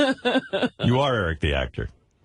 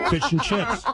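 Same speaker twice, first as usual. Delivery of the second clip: higher, teasing British accent imitation; mock British accent; 9 semitones higher than usual. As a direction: mimic a bad British accent. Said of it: "Just which part of that was British?".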